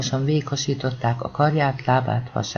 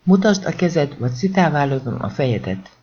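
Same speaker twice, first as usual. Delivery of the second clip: cop barks the order again, a step louder; louder repeated order. Acted. Cop threatens the boy, mildly louder shouted command. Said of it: "ordította mögötte egy felnőtt hang".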